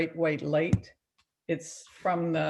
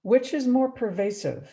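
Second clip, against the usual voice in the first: slow, measured poem recital with long pauses; poetry reading. Acted. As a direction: read it phrase by phrase, letting each line settle. Reads second poem aloud.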